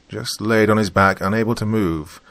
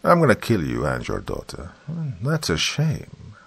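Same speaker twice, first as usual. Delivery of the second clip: devilish smirk; 3 semitones higher than usual. Acted. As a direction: sneer it with a smirk. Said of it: "devilish smirk".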